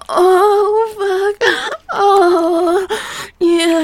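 drawn-out pleasured moan. Pretend. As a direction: moan the words out slowly. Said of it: "Hear my moans".

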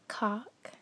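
"Cock" drawled in a Southern belle accent; Southern belle, syrupy and light. Shown as a demonstration. She switches to her Southern belle voice for the challenge, Southern accent. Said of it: "switching to my Southern Belle".

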